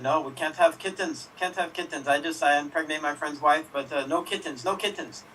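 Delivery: a bad, vague put-on accent doing Simon; mock accent, badly done; hammed-up bad accent; horrible accent. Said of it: "That was a horrible accent".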